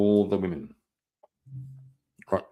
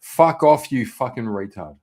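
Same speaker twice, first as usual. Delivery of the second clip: swearing tirade. Real, not acted. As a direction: swear at the screen in disgust. Reactor swearing at the video.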